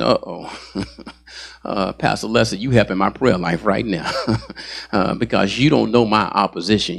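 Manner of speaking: lightly voiced congregant, nervous chuckle; worried churchgoer. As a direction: play a church member caught off guard, half laughing. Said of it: "I can see somebody now saying".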